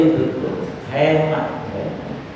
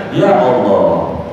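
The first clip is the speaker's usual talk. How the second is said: laughing exclamation; 7 semitones lower, much slower than usual. Real, not acted. Laughing at huge pool idea.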